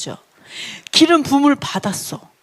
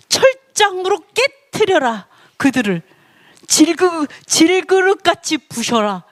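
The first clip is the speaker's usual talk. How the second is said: higher, slow, emphatic decree; God commanding; 5 semitones higher, slower than usual. Acted. Preacher voicing God ordering his Son to rule, emphatic commanding. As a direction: deliver each word as a royal order. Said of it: "그러면서 뭐라는 줄 알아요".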